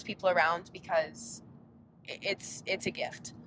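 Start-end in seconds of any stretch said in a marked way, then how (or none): 2.1-3.3 soft whisper. Real, not acted. Tender aside about loved ones.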